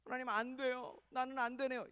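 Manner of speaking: mock defeated little plea, without any shouting; resigned prayer. Shown as a demonstration. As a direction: mimic someone feebly telling God it won't work. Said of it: "이렇게 하지 마시고".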